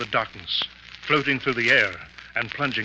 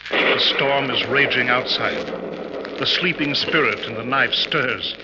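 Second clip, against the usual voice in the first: louder and slower, building dread; theatrical spooky tale, pressing louder; ominous storytelling; 2 semitones higher, 4 dB louder, slower than usual. Acted. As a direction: paint the spooky scene to scare them. Professor conjures a spooky scene.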